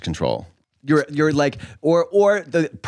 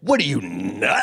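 mock outrage; slower than usual. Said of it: "mock gay outrage line".

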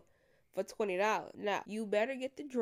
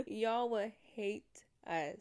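slow, laughing through it; laughing repeat; slower than usual. Real, not acted. Comic to the audience about men, laughing. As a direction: chuckle the line out slowly.

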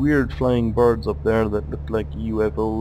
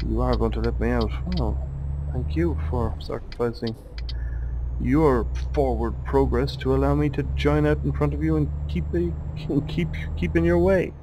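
put-on silly French accent; 4 semitones higher than usual. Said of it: "I'm doing a silly French accent".

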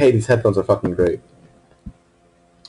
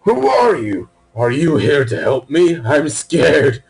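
mock scared voice; much slower than usual. Voicing a scared character.

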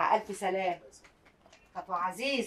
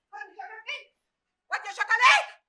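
put-on much higher, frantic calls for the boy; panicked calling; 10 semitones higher, 5 dB louder than usual. Mother frantically searching for her lost son, high panic. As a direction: cry out in rising panic.

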